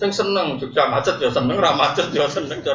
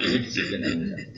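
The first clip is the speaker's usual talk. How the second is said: whispered repeat; 3 semitones lower, 6 dB quieter than usual. Shown as a demonstration. Preacher repeats his point to the congregation in a whisper. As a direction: repeat "ini disiplin ilmu saja" in a hushed, unvoiced whisper. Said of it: "Saya ulang lagi".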